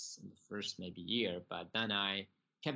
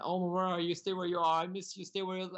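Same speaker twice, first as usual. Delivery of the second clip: higher, louder, urgent cry down the phone; excited screaming; 8 semitones higher, 6 dB louder, faster than usual. Retold or imitated. Woman on the phone to long-lost Omar, retold excited screaming. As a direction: imitate her excited outburst, pitched up and urgent. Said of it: "screaming, you know, excited".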